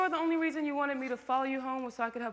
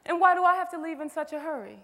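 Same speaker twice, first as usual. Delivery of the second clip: louder and higher, pressing her hard; heated challenge; 5 semitones higher, 7 dB louder than usual. Acted. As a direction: throw the question back angrily. Confrontation between friends.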